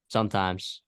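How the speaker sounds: "Sometimes" set apart as its own pointed qualifier; stress on sometimes. Real, not acted. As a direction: land on "Sometimes" as a deliberate caveat. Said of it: "I stress the word sometimes".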